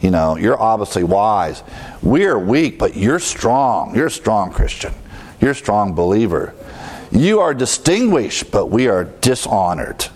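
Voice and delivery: swooping pitch on the mock praise, dropping for the self-put-down; imitated sarcastic flattery; mock sarcasm. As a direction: play Paul's sarcastic contrast. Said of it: "He's using sarcasm here".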